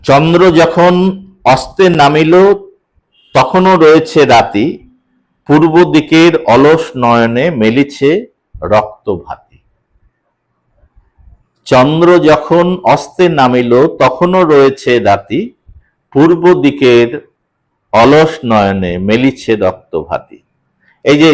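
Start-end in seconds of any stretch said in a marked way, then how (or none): 0.1-9.6 slow, measured verse with pauses; poem recitation. Shown as a demonstration. Teacher reciting verse slowly to show the pauses. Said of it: "কিরকম বিশ্রাম?". 11.7-20.4 slow, measured verse with pauses; poem recitation. Shown as a demonstration. Teacher reciting verse slowly to show the pauses. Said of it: "পরপর আমরা কিন্তু থামতে বাধ্য হচ্ছি".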